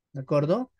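usual speaking voice

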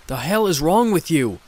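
angry demon snapping back; scowling demon. Acted. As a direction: hurl it at her with a scowl. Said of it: "The demon scowled".

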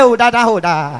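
stuck on "Da", last one dropping low; hammed-up stammer with hooting blocks; second stammerer struggling to get the word out. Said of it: "Now the second stammerer, now reply him".

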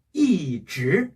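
"이" falling slowly, "즈" rising; slow demonstration of falling "이", rising "즈"; fourth tone then second. Shown as a demonstration. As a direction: drop on "이", then lift "즈". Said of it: "이 뒤에 이 성이".

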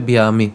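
"ব্যায়ামি" said as bi-ya-mi; pronunciation model. Shown as a demonstration. Teacher answering how it is pronounced, "ব্যায়ামি" as bi-ya-mi. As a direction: sound a y-glide after the b in "ব্যায়ামি". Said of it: "এর উচ্চারণ কী হবে?".

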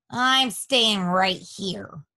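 slow, sulky grumble; grumbling rat. Acted. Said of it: "grumbled the rat".

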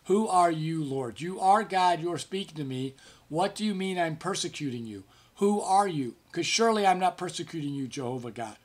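a startled man arguing with a voice from heaven; bewildered protest. Retold or imitated. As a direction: push back in confused disbelief. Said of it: "That's kind of his thinking".

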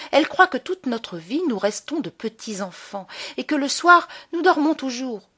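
lightly voiced resentful child, with emphatic bursts; indignant, scheming boy. Locked-in boy plots against the grown-ups, lightly voiced indignation. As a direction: plot revenge as a slighted boy, lightly acted.

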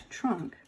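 "trunk" set apart and hit firmly, falling at the end; "trunk" emphasized like a key vocabulary word; stress on trunk. Shown as a demonstration. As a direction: lean on the word "trunk" alone. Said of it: "I'm gonna emphasize that word again".

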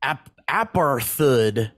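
APARTHEID slowly as "ap-ar-THOOD"; Wikipedia's pronunciation. Shown as a demonstration. Host reading out Wikipedia's guide, slow APARTHEID ending in "thood". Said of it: "it's pronounced".

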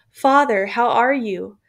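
loud call to father. Acted. Son calls out to his father through the pile of bodies, loud. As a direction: shout to find him in the crush.

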